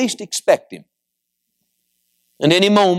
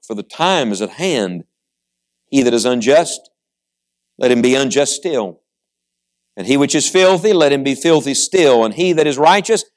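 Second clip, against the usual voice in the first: scripture reading. Acted. Preacher reading Christ's words to the congregation, measured scripture reading. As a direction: read verse by verse with deliberate pauses.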